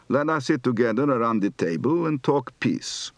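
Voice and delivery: markedly flat Polish Yiddish intonation. Retold or imitated. Teacher imitates Begin's flat television sentence, Polish Yiddish accent. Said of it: "which was markedly flat".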